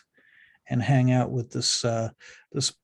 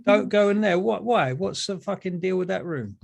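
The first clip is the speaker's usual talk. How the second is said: NPC voice; 6 semitones higher than usual. Acted.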